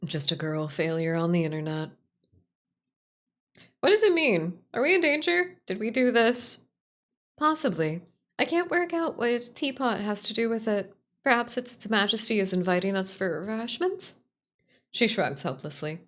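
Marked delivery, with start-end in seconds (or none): 3.8-13.4 a light character voice, alarmed questions; worried game character. Acted. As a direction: read her lines as an anxious companion. Reads a game character's lines.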